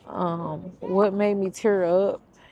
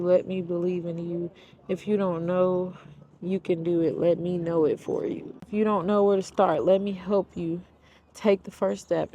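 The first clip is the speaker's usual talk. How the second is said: tender reading. Acted. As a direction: speak it like a promise to one person. Reads the book's tender ending.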